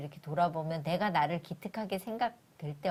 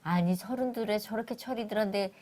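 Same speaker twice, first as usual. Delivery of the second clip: mock parental grumbling, rising louder and higher; exasperated parent; 5 semitones higher, 5 dB louder than usual. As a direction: complain like a fed-up parent, building to the end. Acts out exasperated parent comparing kids.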